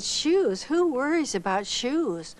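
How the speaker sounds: incredulous scoff. Retold or imitated. Answering the officer about bare feet, a slow incredulous scoff. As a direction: laugh off the very idea of shoes.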